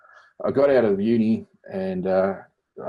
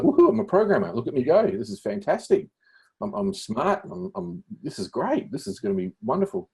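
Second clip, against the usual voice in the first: mock giddy excitement; 7 semitones higher than usual. Student after his first HTML lesson, mock giddy excitement. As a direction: cheer for yourself like a kid with a new toy.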